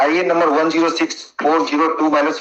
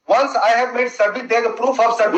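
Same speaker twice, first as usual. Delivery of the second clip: heated, pitch high; raised voice; 5 semitones higher than usual. Real, not acted. Counsel arguing service with the bench, voice raised. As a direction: argue your point with rising heat. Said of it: "Again, your voice is going up".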